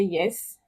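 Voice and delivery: YES rising like a question. Shown as a demonstration. Answering when somebody calls, rising "yes". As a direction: lift the pitch upward through "yes". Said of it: "The second tone is the rising tone".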